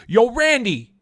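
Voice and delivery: calling out. Retold or imitated. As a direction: yell his name across the ring. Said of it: "and he goes".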